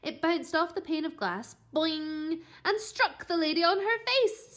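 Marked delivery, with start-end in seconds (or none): none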